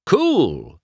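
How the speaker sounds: high, thrilled burst; gleeful, drawn-out cheer; excited cry. A narrator's reading. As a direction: exclaim it with eager delight. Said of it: "Mater cried".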